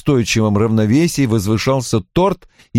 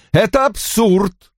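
slow, high-pitched disbelief; loud protest; 11 semitones higher, slower than usual. A narrator's reading. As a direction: dismiss it as nonsense, exclaiming. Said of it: "громко сказала Ким". (громкий возмущённый протест)

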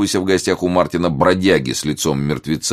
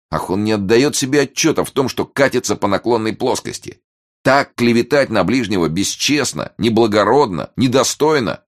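high, mounting moral lament; lofty reproach; 7 semitones higher, 3 dB louder than usual. A narrator's reading. Martin laments the reporter's slander, loftily reproachful. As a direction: build through each reproachful word.

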